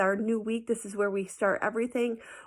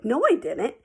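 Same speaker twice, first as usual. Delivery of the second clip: put-on kid denying; 5 semitones higher, 6 dB louder than usual. Accused kid denies in class.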